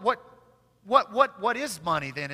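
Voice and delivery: ordinary talk, nothing marked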